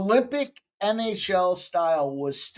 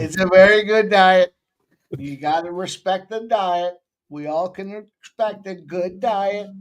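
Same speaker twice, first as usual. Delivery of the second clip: a light, understated Trump, punching the word "very"; Trump impression; 5 dB louder than usual. Host jokingly does Trump for the betting panel, lightly voiced. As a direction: lightly mimic Trump's boastful praise. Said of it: "was that your attempt at being Trump?".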